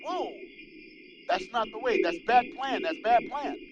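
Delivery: mock dismay. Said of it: "they were like".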